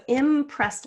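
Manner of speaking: "impressed" stretched slow and loud; slow and clear. Shown as a demonstration. Teacher slows the word for spellers, loud and slow. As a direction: draw out "impressed" syllable by syllable. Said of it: "saying the syllables slowly and clearly".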